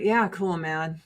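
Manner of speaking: flat, bored mock-approval; unimpressed. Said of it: "just demonstrative".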